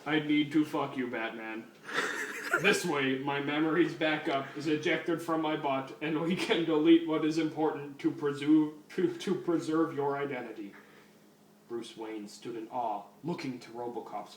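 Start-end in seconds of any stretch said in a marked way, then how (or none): 0.1-10.7 lightly voiced robot cop, even pitch; RoboCop. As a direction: do a bad stiff robot officer. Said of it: "That's the worst fucking RoboCop voice ever".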